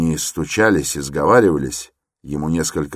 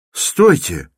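shouting; 7 semitones higher, 5 dB louder than usual. Acted. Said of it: "закричал вдруг молодой человек".

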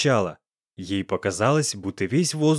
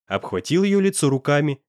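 usual speaking voice

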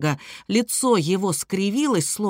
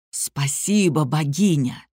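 low, hoarse voice with a falling end; a lightly voiced beast crying out; 6 semitones lower, slower than usual. A narrator's reading. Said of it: "выкрикнул хриплым, непослушным голосом". (хриплый крик зверя)

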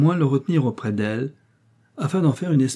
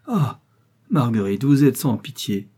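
anguished cry; 3 dB louder than usual. Acted. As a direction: cry out as if wounded. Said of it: "s'écria le jeune homme".

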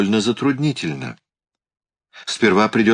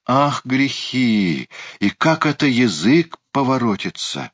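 higher-pitched, scandalised fretting; flustered alarm; 6 semitones higher than usual. A narrator's reading. Uncle recoils from talk of killing, flustered. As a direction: fret aloud in mild shock. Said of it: "всполошился Эбенезер".

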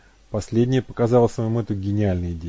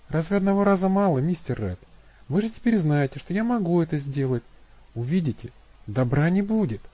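much higher, foreboding plea; voiced Abby, warning; 6 semitones higher than usual. A narrator's reading. Abby warning Matt, high and uneasy. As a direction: warn him gently.

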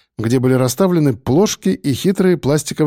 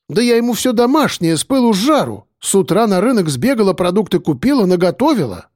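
much higher, indignant hands-on-hips protest; indignant wife; 7 semitones higher than usual. A narrator's reading. Wife defending her home cooking, high indignant protest. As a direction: defend your cooking, offended. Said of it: "уперла руки в бока Маришка".

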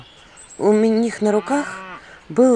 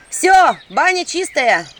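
exhaled announcement; 8 semitones higher, 4 dB louder, slower than usual. Acted. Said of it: "выдохнула я собравшемуся селу".

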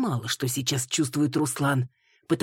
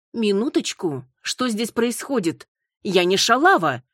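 higher, louder protest; louder indignant denial; indignant outburst; 6 semitones higher, 4 dB louder than usual. A narrator's reading. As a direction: push back, offended. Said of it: "возмутилась Маруся".

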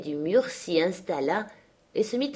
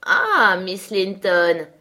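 a rider calling out, louder and slow; deep call; 7 dB louder, much slower than usual. Acted. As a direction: call out to Miss Linton from horseback. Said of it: "cria une voix grave". (appel d'une voix grave, plus forte)

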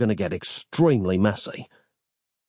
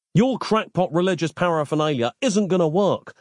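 snapped; 8 semitones higher than usual. A narrator's reading. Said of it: "snapped Nick".

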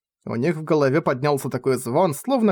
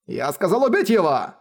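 grim order; 4 semitones higher than usual. Acted. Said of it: "мрачно приказал он".

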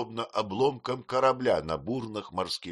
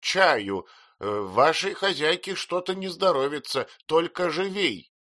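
louder, higher bossy command; commanding order; 10 semitones higher, 5 dB louder than usual. A narrator's reading. Aunt commands the servant to bring tea, loudly. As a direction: order her like the mistress. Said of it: "таким тоном, словно она повелевала".

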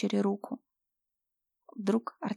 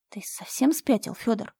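indignant; 2 semitones higher than usual. Acted. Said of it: "возмутилась Мирослава".

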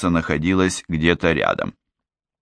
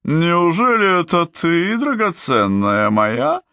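much higher, slow, gushing exclamation; exclaiming; 11 semitones higher, slower than usual. Acted. Glinda greets her sister in high, feigned delight. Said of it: "воскликнула Глинда".

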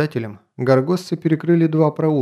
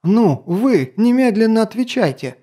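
high, loud furious order; furious demand; 8 semitones higher, 3 dB louder than usual. Acted. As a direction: snap the order in a rage. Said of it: "Эсмирея взбесилась".

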